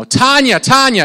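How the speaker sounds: calling across a busy spot, loud and high; calling out a name. Retold or imitated. Calling to a distracted friend, loud call. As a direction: call out to get her attention. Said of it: "you're like".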